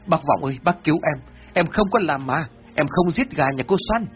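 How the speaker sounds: cling to him and plead through tears, lightly played; mild weeping appeal; crying plea. A narrator's reading. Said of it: "Mão túm lấy chân của ông Vọng rồi khóc".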